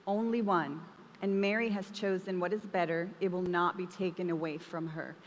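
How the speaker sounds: measured Bible reading voice; calm, deliberate scripture read. Acted. Reads the scripture passage aloud.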